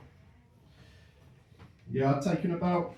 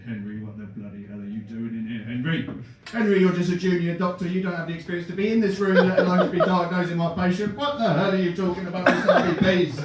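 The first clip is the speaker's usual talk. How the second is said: louder, mock-furious senior doctor; 3 semitones higher, 5 dB louder than usual. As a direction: scold the junior doctor. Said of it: "Shackleton looked furious".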